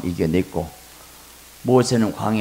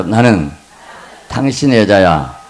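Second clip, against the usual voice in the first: louder line for the congregation to repeat; loud leading line; 6 dB louder than usual. Shown as a demonstration. Pastor leading the congregation to repeat a line. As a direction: lead them out loud. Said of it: "한번 따라서".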